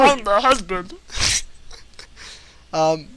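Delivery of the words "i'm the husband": high, loud squeaky elf; tiny elf voice. Acted.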